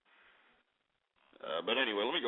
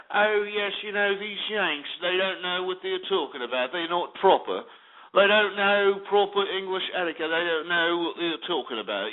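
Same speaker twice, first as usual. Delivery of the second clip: mock British. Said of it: "Britain ... talk garbage about America".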